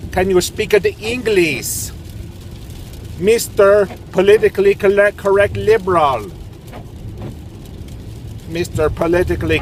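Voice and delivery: high, sneering "can you speak the English"; mocking taunt. Real, not acted. Vlogger taunts politically correct liberals, high and sneering.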